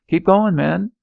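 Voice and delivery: high, loud yell; shouted order. Acted. Officer shouting his troops forward. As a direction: bark it at the men.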